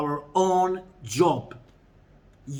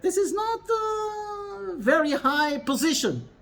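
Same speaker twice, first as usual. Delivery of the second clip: exclaiming; 11 semitones higher than usual. Real, not acted. Preacher exclaims a common view.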